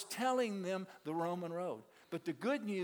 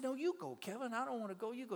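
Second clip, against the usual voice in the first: raised, insistent refusal; no, you do it, pleading high; pushing it back; 7 semitones higher, faster than usual. Retold or imitated. Refusing the friend's request in a raised pleading voice.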